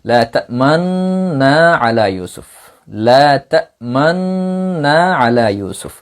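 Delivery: slow spoken লা তা'মান্না with lips rounding after তা'মান; spoken teaching of ishmam in লা তা'মান্না; ishmam demo. Shown as a demonstration. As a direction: say লা তা'মান্না slowly, hinting the damma with the lips during the nasal. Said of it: "লা তা'মান বলার পর আপনি পেশের দিকে ইশারা করবেন".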